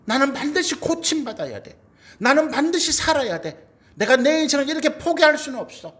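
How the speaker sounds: high, insistent voicing of desperate resolve; 간절한 다짐. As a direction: act out refusing to give up, pitched well up. 여인의 간절한 다짐을 연기. (여인의 절박한 다짐을 높고 힘주어)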